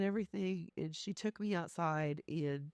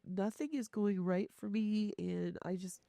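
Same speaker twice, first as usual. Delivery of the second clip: higher, mildly tearful complaint; retold sobbing; 4 semitones higher than usual. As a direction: lightly imitate a friend's miserable sobbing.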